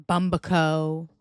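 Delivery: Bumbaco as BUM-buh-ko; mangled surname. Retold or imitated. Podcaster quotes people's mistakes, BUM-buh-ko. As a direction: swallow the middle A of Bumbaco. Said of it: "People have said".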